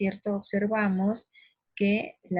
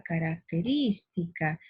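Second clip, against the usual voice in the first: característica with RÍS stretched and raised in pitch; stress on RÍS; slower than usual. Shown as a demonstration. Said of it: "aris vendría a ser la".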